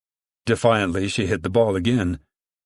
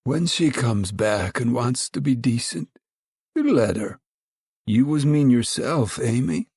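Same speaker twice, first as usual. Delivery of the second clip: warning; 3 semitones higher than usual. A narrator's reading. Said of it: "The watching lady warned them".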